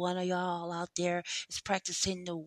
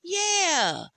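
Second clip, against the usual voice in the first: mock positivity; 3 semitones higher than usual. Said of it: "I'll give y'all two minutes of positivity".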